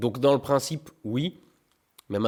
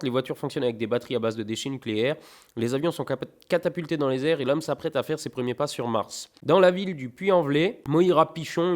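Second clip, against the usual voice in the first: blurb read aloud. Acted. Reading the book blurb aloud.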